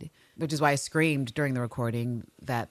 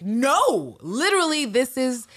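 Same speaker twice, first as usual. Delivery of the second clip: high, louder forceful refusal; emphatic Anne; 7 semitones higher, 6 dB louder than usual. Retold or imitated. Anne refusing to share Walker, loud and emphatic. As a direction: put your foot down hard. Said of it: "it's like".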